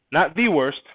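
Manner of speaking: "the" said as a stressed THEE; emphatic THEE before "worst". Real, not acted. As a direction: lean hard on "the", as in the single worst. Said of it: "I said one of".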